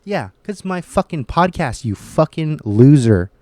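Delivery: builds to a roaring yell on fucking loser; defiant yell. Real, not acted. Defiant outburst at critics.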